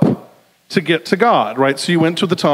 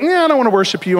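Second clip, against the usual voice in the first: higher-pitched imitation of a brush-off; mock dismissive; 7 semitones higher, faster than usual. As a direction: wave God away in mock refusal. Voices the people rejecting God.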